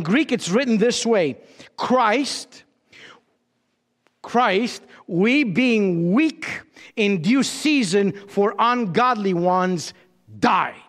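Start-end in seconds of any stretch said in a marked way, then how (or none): 1.8-10.7 slow reading, isolating "Christ," at the start and "died" at the end; stress on Christ and died. Shown as a demonstration. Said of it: "The emphasis is on Christ and died".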